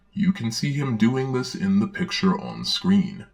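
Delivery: put-on gentle read-aloud for children; storybook reading. Narrator reading a Bible story to children, storybook voice.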